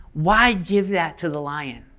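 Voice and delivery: lightly voiced, slow tempting witch; a hint of a coaxing witch, drawn out. White Witch tempts a boy in the garden, lightly coaxing.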